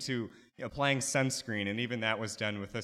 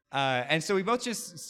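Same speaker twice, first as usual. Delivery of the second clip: ordinary talk, nothing marked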